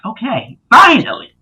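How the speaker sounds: high, exaggerated "at last" reaction; hammed-up exclamation; retold relief. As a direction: build from okay to a loud, high finally. Acting out his relieved response.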